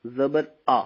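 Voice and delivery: slow, syllable by syllable; slow spelling drill. Shown as a demonstration. Teacher slowly spells for students. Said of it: "इसी अंदाज में करेंगे".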